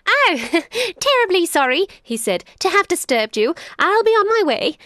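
sly jackal. Acted. Jackal pretending to leave the lion and boy, high and chirpy. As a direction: play innocent and fluttery.

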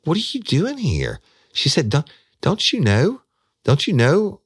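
high, loud, panicked questions; freaked-out woman. Retold or imitated. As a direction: voice a scared woman confronting him. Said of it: "It freaked me the fuck out".

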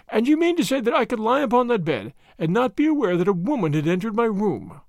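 lightly voiced professor in disbelief; old professor, incredulous. Old professor challenges Holmes.

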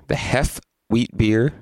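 slow, dry sarcastic read. Real, not acted. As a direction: say the name with a smirk. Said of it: "I just said it sarcastically".

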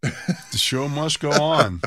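slow, grand proclamation; mock solemn. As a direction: say it like a solemn motto. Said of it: "I was a warrior".

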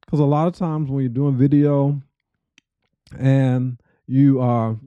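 talking around a piece of ice in the mouth; words round an ice cube. Real, not acted. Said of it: "I got a piece of ice in my mouth".

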